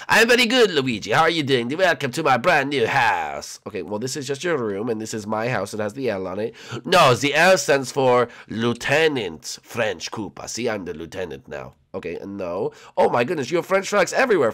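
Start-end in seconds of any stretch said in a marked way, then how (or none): 0.1-3.6 lightly voiced cartoon host, emphatic; a hint of a proud character voice; French Koopa host. 6.8-11.8 lightly voiced self-important lieutenant; slow, deliberate announcement of rank; a hint of cartoon pomp; proud French Koopa.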